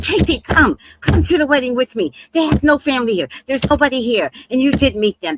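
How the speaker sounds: lightly acted insistent urging; Flint coaxing. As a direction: imitate a friend pleading the case. Acting out Flint coaxing her along.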